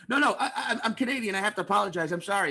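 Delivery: out-apologize them, half laughing; mock apologetic.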